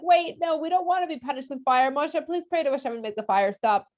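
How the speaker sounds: high, hurried pleading; panicked crowd pleading; mock panic. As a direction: beg Moshe in a rush, half-joking fear. Frightened people beg Moshe.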